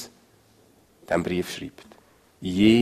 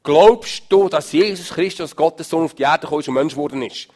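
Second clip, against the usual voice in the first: challenging question; 6 semitones higher, 8 dB louder than usual. Pretend. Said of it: "und ich kann sagen".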